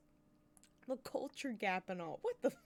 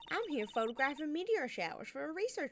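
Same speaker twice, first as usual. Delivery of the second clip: put-on southern accent; 4 semitones higher than usual. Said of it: "southern accent".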